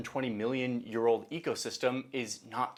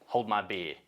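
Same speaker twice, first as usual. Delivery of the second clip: "beer" said as an Australian "bee-ah"; Australian accent; 5 semitones lower than usual. Acted. Narrator voicing Liam the sheep farmer, Australian accent. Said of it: "the way Australians say beer".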